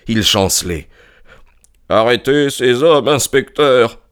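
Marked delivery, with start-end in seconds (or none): 1.9-4.0 strained, higher-pitched gasped order; breathless, exhausted demand; gasping. A narrator's reading. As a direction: pant out an urgent command. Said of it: "haleta-t-il".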